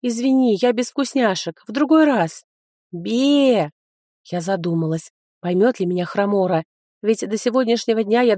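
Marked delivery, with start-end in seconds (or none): 0.0-2.4 affectionate. Acted. Speaking to the pet. 2.9-3.7 imitated bleat. Animal bleat.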